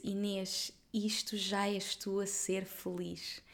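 soft, slow, quiet reassurance; tender quote. Retold or imitated. Helga calmly reassuring crying Inês, tender and soft. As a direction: say it gently, like a loving truth. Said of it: "a Helga olhou para mim e disse".

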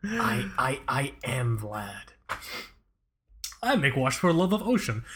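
hammed-up Russian accent with halting pauses; Vlad. Method actor insisting he is Vlad, comic Russian accent. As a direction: stay stubbornly in a mock Russian accent. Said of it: "Otherwise, I lose accent".

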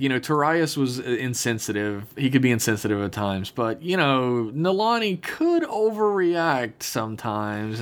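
retold gentle dig, stretched at the end; mock passive aggressive. Host retells Dax needling Khan, lightly passive aggressive. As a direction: needle lightly, lifting and slowing on the accusation. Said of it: "super passive aggressive".

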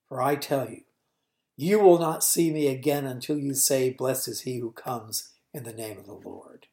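sorrowful preaching that fades toward the end; Jesus grieving over Jerusalem; Jesus lamenting Jerusalem. Acted.

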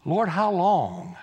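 slow, drawn-out wary asking; hesitant question. Acted. Isaiah asks the Lord about being sent, slow wary question. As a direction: stretch it out at an ordinary volume. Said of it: "this is how I know he's Baptist".

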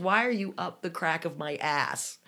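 high, loud, exasperated jabs at an imagined driver; mock rant at tailgater. Driver ranting at the tailgater behind her, high and loud. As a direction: yell at the car behind you.

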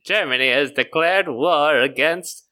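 lightly voiced vintage newsreader; 1920s newscaster. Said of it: "You sound like a newscaster from the twenties".

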